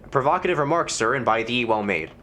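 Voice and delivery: lightly voiced stuffy gentleman; reply with mock Elizabethan politeness; a hint of a pompous landlord; archaic formal. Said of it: "talking like this".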